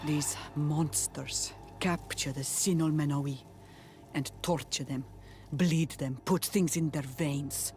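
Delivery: low, sombre account of suffering; grave. Acted. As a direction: tell of the horrors in a low, subdued voice. Recounts torture of own people.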